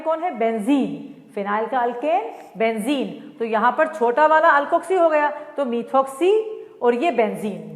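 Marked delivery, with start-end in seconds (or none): 5.6-6.4 slow naming. Shown as a demonstration. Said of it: "slow stress on name".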